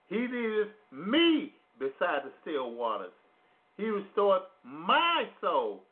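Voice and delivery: preacher reading Psalm 23, pressing "me" and "my"; stress on me and my. Shown as a demonstration. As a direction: read the psalm leaning on "me" and "my". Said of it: "I have emphasizing".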